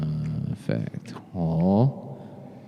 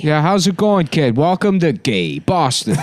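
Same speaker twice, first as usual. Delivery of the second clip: radio DJ voice; 6 semitones higher than usual. Acted. DJ greeting.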